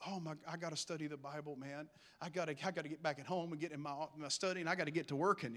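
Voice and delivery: low, hushed, hurried self-talk; soft, rushed note to self; muttering to self. Retold or imitated. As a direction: mutter it quickly under your breath, as if making a mental to-do list. Acting out own reaction to friend.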